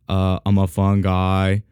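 slow, low, flat-toned mock interview answer; lightly voiced deadpan basketball star; Kawhi Leonard impression. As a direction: drawl it out like a laid-back athlete. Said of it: "I sound like Kawhi Leonard".

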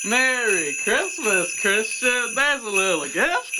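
slow, jolly Santa greeting. Pretend. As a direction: play a light Santa Claus. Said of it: "as Santa would give gifts".

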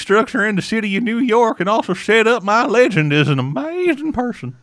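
put-on blustery old New York politician; Roosevelt impression. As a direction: boom it out like Teddy Roosevelt. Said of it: "you're not too far from the accent".

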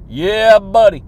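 a loud, pumped-up yell of yeah; loud hype call; hype shout. Real, not acted. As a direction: shout it to fire up the crowd.

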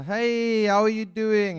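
chirpy, loud hello with a forced smile; bright greeting. Retold or imitated. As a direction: call out a cheerful hey. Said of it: "we'll greet each other".

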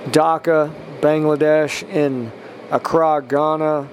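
measured blessing in an even tone; spoken prayer. Real, not acted. Podcast preacher blessing listeners country by country, prayerful. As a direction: pray down a list of places, evenly.

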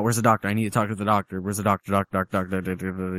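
mildly imitated frantic rambling; going crazy. Retelling victim demanding the doctor, mild freak-out. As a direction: repeat it obsessively until it runs into babble. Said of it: "He's going crazy about the doctor".

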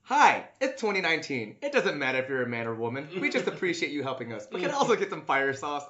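brisk, lightly put-on customer voice; drive-thru voice. Friend imagined ordering at the drive-thru, lightly put-on brisk voice. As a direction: imitate a chipper-quick drive-thru order. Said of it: "All right, drive-thru voice".

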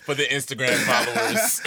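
teasing through a laugh; mock a shameless plug while laughing; chuckling, teasing jab; laughing tease. Real, not acted. Teasing friend mid-laugh.

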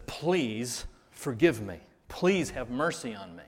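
lightly voiced second servant begging; pleading. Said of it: "says the exact same thing".

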